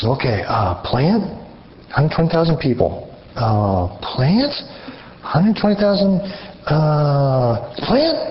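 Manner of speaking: a hammed-up clueless prophet torn between plant and people; dithering Jonah. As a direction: play a dimwit who can't choose. Jonah voiced dithering dumbly.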